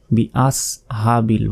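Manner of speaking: "আস" with a plain s sound; wrong way. Shown as a demonstration. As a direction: say "আস" the common wrong way. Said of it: "বলি, এটা কিন্তু ভুল".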